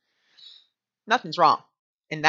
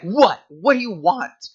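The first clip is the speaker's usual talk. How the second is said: snapping at the dog; 3 semitones higher, 7 dB louder, slower than usual. Retold or imitated. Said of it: "And I was like".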